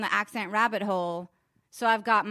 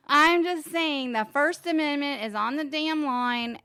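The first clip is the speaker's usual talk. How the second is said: drifting Southern accent; 4 semitones higher than usual. Real, not acted. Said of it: "Your accent is changing".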